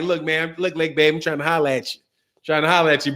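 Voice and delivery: smooth British charm, only hinted at; cool British accent. Retold or imitated. Dark Truth chatting up a woman in a cool British accent. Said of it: "the real cool British accent".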